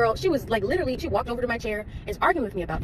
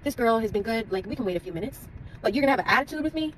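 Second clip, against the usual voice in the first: the loyal customer arguing with the nail lady, upset and high-pitched; upset, raised voice; 3 semitones higher than usual. Retold or imitated. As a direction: pitch climbing high, indignant protest. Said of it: "so I'm starting to get upset".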